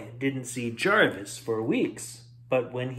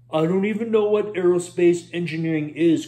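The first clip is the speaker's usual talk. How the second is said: exasperated cry; 3 semitones higher, 3 dB louder, faster than usual. Acted. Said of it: "cried Roy".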